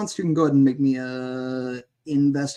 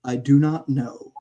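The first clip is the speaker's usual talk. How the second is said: said again louder and clearer; louder repeat; 3 dB louder than usual. Acted. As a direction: repeat it so they can hear. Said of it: "I can't hear you, Chip".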